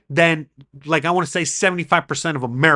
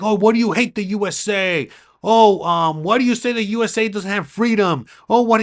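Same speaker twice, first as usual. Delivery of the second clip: higher, needling voice of an outraged critic; whiny mock-outrage, pitched up; mock indignant critic; 5 semitones higher than usual. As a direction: parody the people yelling at him. Mocking critics who yell at him.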